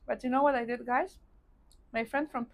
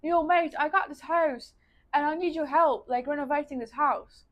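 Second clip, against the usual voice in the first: put-on higher, louder, half-hearted Aussie accent; attempted Aussie accent; 4 semitones higher, 5 dB louder than usual. Friend asking for help renovating his house, rough Aussie accent. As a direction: have a go at an Australian mate's accent. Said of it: "I can't do the Aussie accent".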